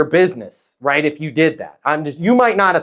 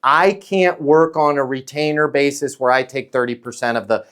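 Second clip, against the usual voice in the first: getting ahead of it. Shown as a demonstration. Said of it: "That sounds like this".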